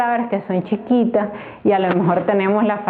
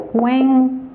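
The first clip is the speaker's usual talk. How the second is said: CUÉNTAMELO split as CUÉN, TA, ME, LO, higher start; syllable by syllable; 4 semitones higher than usual. Shown as a demonstration. Teacher illustrating every accent position, syllable by syllable. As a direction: dictate CUÉNTAMELO in four separate syllables. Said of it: "una palabra sobre esdrújula".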